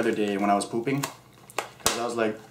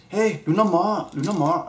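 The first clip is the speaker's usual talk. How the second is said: calling out; 8 semitones higher, 6 dB louder than usual. Pretend. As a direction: call everyone to the table. Calling people to eat.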